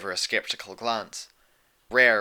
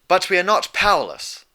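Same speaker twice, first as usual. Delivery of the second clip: retort; 9 semitones higher, 9 dB louder than usual. Acted. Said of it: "Luna retorted".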